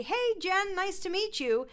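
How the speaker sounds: lifted, chatty greeting; imitating a singer's casual hello; high speaking voice. Mock singer greeting the coach, high and light. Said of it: "I run into singers that say".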